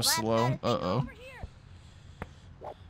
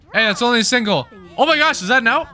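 high, loud amazed outburst; surprised excitement; 9 semitones higher, 5 dB louder, faster than usual. Real, not acted. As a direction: disbelief at the lucky out. Surprise at double play.

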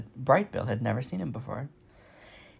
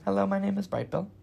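cheerful gosling; 8 semitones higher than usual. Acted. Gosling greets strangers in holes.

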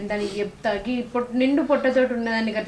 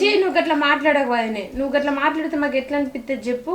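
higher, reproachful protest; upset scolding; 5 semitones higher than usual. Acted. Sister-in-law objecting to talk of dying, upset scolding. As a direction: chide with raised pitch, out of concern.

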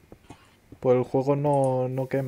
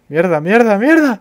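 curses building higher and louder; escalating cursing; 7 semitones higher, 8 dB louder than usual. Real, not acted. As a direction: swear louder each time. Cursing at too much coal.

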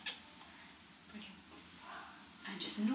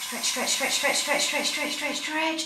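loud, higher urgent coaching chant; coaching shout; 5 semitones higher, 8 dB louder, slower than usual. Real, not acted. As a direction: push the patient on, calling out. Coaching patient through breathing test.

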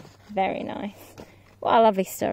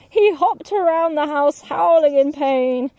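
higher, excited storytelling; dramatic narration; 6 semitones higher, 6 dB louder than usual. A narrator's reading. Narrator telling the wolf blowing houses down, excited and lively. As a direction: build the suspense for the kids.

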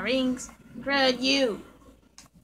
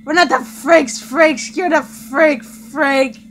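angry shouting; 9 dB louder, slower than usual. Acted. Shouted retort.

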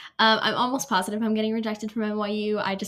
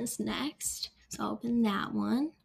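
whisper; 7 dB quieter, slower than usual. Real, not acted. Before opening UPenn.

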